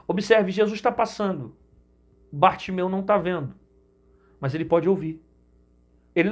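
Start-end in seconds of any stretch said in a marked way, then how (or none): none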